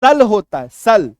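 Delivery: सल hit hard and loud; stress on सल. Shown as a demonstration. Teacher insists to students on the right sound, loud stress. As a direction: punch the word सल. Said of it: "सही उच्चारण सल होगा".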